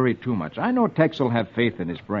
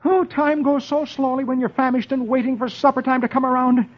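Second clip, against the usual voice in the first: higher, moaning impatient voice; hungry Dagwood; 10 semitones higher than usual. Acted. Dagwood famished at the office, moaning in a higher voice.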